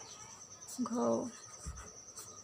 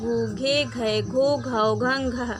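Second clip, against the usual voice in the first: barakhadi recitation; slower than usual. Shown as a demonstration. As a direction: chant the letter pairs for children. (बच्चों के लिए बारहखड़ी का सुर में पाठ)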